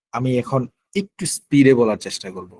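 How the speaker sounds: usual speaking voice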